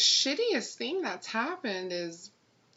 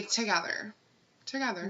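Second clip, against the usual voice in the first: prompt, matter-of-fact "together"; simple, decided demonstration of the reply; immediate answer; 4 dB quieter than usual. Shown as a demonstration. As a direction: answer at once without any stalling. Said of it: "Immediately say".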